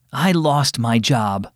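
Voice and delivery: slow, mildly sad confession; heavy-hearted admission. Acted. Father telling his children he lost his job, slow and mildly sad. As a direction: let the words come out slowly, like it hurts a little to say them. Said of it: "he paused and sighed".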